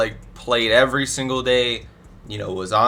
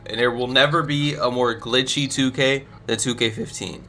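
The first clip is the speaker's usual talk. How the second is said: voice cracking. Real, not acted. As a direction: voice cracks mid-sentence. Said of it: "That voice crack's crazy".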